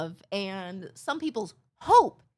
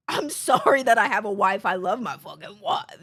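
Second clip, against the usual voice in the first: mock guilty apology; 4 dB louder than usual. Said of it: "not to be like".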